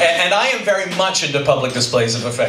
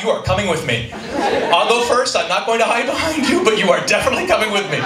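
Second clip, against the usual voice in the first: mock-heroic, higher-pitched insistence; would-be heroic; 6 semitones higher, faster than usual. Husband orders wife along downstairs, mock-heroic. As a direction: put on bravery while insisting on company. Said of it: "heroically, I thought".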